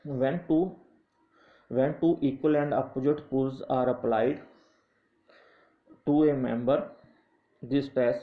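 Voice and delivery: slow definition read for note-taking; dictating a textbook definition at half pace; slow dictation. Acted. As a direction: spell it out slowly so students can write.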